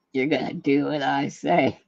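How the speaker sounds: lightly imitated movie-hero order; measured mock command, word by word; John Wayne. Retelling a film hero ordering his toe about, deliberate mock command. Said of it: "every day he tells his big toe".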